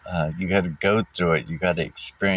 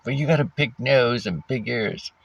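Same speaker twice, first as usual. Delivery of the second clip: retold yelling; 6 semitones higher than usual. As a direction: imitate a partner's jab in a raised pitch. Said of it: "anything to yell at me for".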